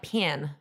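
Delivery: "pan" with a flat Alabama a. Shown as a demonstration. Demonstrating the Alabama accent to podcast hosts, "pan". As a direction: say "pan" for pen, southern style. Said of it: "they'll say, like".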